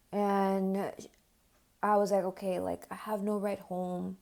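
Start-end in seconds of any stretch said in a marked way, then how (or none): 2.2-4.2 whispered under her breath, voiceless. Retold or imitated. Stuck at her friend's house with no ride, whispering. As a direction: whisper it so nobody overhears. Panicked inner thought, no ride home.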